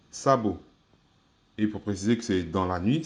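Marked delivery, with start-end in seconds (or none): 0.1-0.6 Sabo said with a falling tone. Shown as a demonstration. Teacher models Sabo's falling tone for learners. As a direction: let Sabo fall at the end. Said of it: "avec les intonations".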